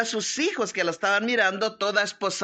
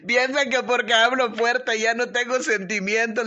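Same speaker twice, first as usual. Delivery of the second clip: laughing. Real, not acted. Laughs at the brother's remark.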